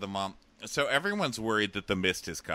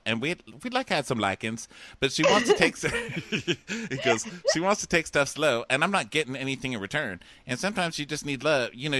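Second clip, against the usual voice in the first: louder, higher, rambling self-pity; hammed-up Eric monologue; 5 semitones higher, 4 dB louder than usual. Reading out Eric's monologue to Cassandra, louder and higher. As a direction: ham up a needy guy. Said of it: "A monologue by Eric".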